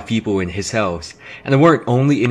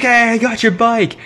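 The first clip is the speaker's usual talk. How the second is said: calling out; 11 semitones higher than usual. Retold or imitated. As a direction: call out gladly from a distance. Friend calls from the road.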